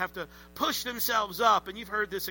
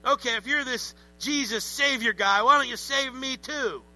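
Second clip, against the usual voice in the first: louder, higher sarcastic jeer; sarcastic taunt; 4 semitones higher, 4 dB louder than usual. Acted. Entitled criminal mocking Jesus, sarcastic jeer. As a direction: jeer at him with smug sarcasm. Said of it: "he's sarcastic".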